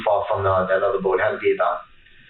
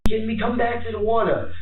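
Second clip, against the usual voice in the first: calls out to her in a raised, strained voice; retold scream; 11 semitones higher than usual. Boyfriend yelling to his girlfriend in the water, high retold yell. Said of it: "And I'm screaming at her".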